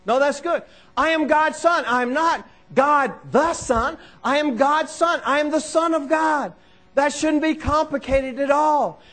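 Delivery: high, insistent pulpit delivery; forceful preaching. Real, not acted. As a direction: preach it with urgent, punched repetition.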